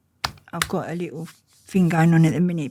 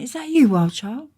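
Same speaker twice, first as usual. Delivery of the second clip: higher, louder friendly call of recognition; mild surprised greeting; 7 semitones higher, 6 dB louder than usual. Retold or imitated. Old friend recognizing her on the street, higher and louder.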